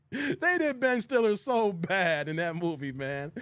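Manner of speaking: said through laughter, slowly; laughing at the line. Real, not acted. Repeat while laughing hard.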